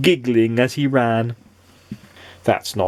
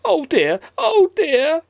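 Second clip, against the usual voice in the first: sighing; slower than usual. A narrator's reading. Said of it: "sighed Mister Mischief".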